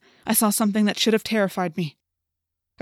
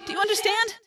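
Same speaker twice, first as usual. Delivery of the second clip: put-on high, distant girl's call; faint, faraway voice; 13 semitones higher than usual. A narrator's reading. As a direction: call out thin and high, as from far away. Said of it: "It was faint, as if it were far away".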